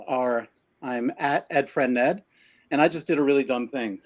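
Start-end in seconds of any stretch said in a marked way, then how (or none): 2.7-4.0 winded after exercise; breathless from pull-ups; out of breath. Real, not acted. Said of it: "and now I'm out of breath".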